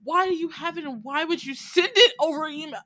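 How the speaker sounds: high-pitched, exasperated disbelief; high, scandalized demand for an explanation; incredulous questioning. Retold or imitated. Reenacts disbelief at the leaked recording.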